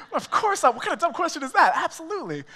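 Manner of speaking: amused disbelief; laughing. Real, not acted. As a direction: scoff with a laugh. Laughing at obvious yes.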